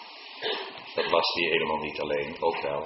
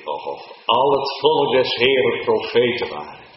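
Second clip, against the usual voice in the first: fervent cry; 6 semitones higher, 8 dB louder than usual. Acted. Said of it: "En toen zei hij".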